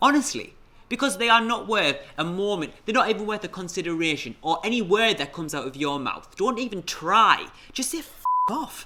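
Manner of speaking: angry, worked-up ranting. Telling a listener what to say to someone who does that, as an angry rant. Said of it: "The speaker's going ranty".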